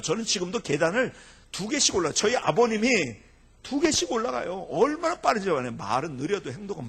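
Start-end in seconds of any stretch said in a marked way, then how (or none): none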